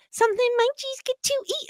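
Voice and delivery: high fast ad jingle; commercial jingle voice. Retold or imitated. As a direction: chirp it like a TV ad. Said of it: "that little commercial for dog treats".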